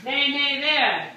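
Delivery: slow demo. Shown as a demonstration. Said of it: "You say neigh, neigh here".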